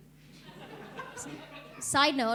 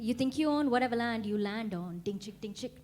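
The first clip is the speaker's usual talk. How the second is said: mock Pocahontas accent. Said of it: "is this the accent of Pocahontas".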